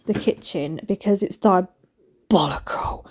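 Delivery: slow whispered verdict. Real, not acted. Vlogger whispering her verdict on husband's cooking mess. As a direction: whisper it like a scandal.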